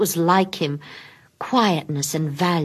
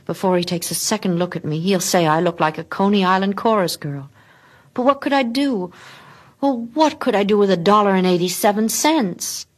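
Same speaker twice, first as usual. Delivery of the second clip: higher, rising worried plea; anxious fretting; 3 semitones higher than usual. Acted. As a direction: fret aloud to yourself. Della frets at mirror.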